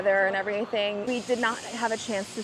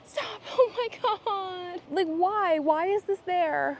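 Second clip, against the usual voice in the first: high gasping shriek into nervous laughter; startled and scared; 9 semitones higher, slower than usual. Real, not acted. Vlogger scared by what appears in the exhibit, real startled squealing. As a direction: get a real fright, squeal, then laugh breathlessly. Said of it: "that scared me".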